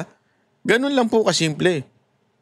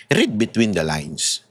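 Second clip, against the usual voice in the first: slow emphatic; 10 semitones lower, slower than usual. Real, not acted. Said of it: "ganito na lang kasimple".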